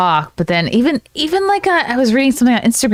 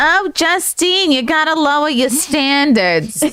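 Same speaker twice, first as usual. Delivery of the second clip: put-on mom accent, pitched up; 6 semitones higher than usual. Asked to do their best mom accent and play the mom: imitating mom's accent. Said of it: "Do your best mom accent".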